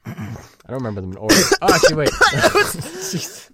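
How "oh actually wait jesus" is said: coughing and sputtering after a swallow; just swallowed a bug. Real, not acted. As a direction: choke out the words mid-cough. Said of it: "Swallowed a fly".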